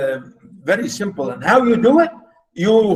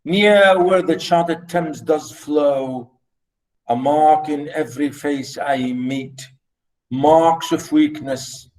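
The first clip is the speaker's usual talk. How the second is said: slow, measured reading of verse; poem recitation; 3 semitones lower, slower than usual. Shown as a demonstration. Teacher reciting Blake's London for the students, slow and measured. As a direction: let each line fall slowly, beat by beat.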